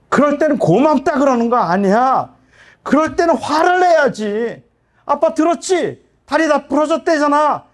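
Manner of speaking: a father scolding his injured son, shouting in frustration; retold shouting at son. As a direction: yell it like a father losing his temper. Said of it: "저도 모르게 소리를 질렀어요".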